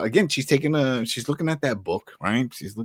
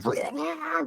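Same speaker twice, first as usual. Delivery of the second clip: mock death noise; 5 dB quieter than usual. Mimics group's sudden death.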